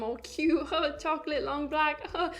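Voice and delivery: lightly mimicked gushing, broken by little laughs; mock cooing. Commentator mocking people who label others like food, mock cooing. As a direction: coo it in mockery, pitch lifting at the end.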